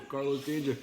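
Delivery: lightly put-on Spanish accent on the name; Carlos Danger accent. Shown as a demonstration. Showing Nelson the nickname, mild mock Spanish accent. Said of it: "I had an accent".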